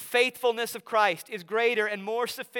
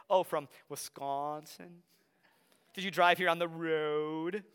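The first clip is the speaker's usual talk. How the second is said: a light mock Wisconsin accent with long O's and A's. Others teasing the Wisconsin student's accent, mild Wisconsin accent. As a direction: tease the Wisconsin vowels gently. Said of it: "the way that we hold out our O's and A's".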